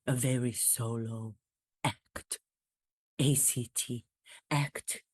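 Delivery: royal caller to Jimmy Fallon in a mock English accent. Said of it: "my reenactment of my conversation".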